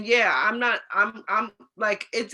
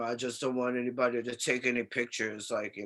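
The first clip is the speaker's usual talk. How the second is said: lowered, much softer voice as the actor asking discreetly; quiet celebrity request; 7 semitones lower, 6 dB quieter than usual. Retold or imitated. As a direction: hush it down like a star asking for privacy. Cuba Gooding asks for no pictures.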